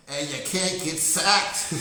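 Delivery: loud, slow, drawn-out scold; scolding the team. Acted. Fan scolding the Ravens quarterback after playoff loss, loud and slow. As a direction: yell it at the TV like a let-down fan.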